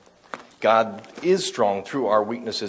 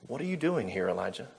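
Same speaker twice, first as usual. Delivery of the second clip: much softer, hushed voice of God; gentle small voice; 8 dB quieter than usual. A narrator's reading. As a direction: breathe it like a still small wind. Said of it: "a sound of a gentle blowing, or still small wind".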